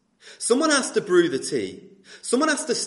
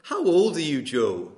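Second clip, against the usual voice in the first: attempted Northern Irish man's accent. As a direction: have a brave go at Northern Irish. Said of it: "I'll do an impression of him".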